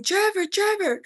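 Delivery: high, loud panicked cry of a name; mother screaming name. A narrator's reading. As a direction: yell him awake from smoke. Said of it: "saw her shaking me and screaming".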